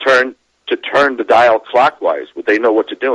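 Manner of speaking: ordinary talk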